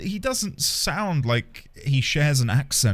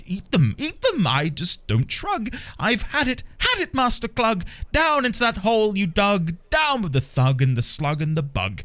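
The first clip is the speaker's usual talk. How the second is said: bouncy singsong storybook read, voices trading lines; rhyming poem reading; 2 semitones higher than usual. Acted. Streamer reading a Seuss parody poem to chat, singsong storybook. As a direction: read it like a children's rhyme book, pleading then stubborn.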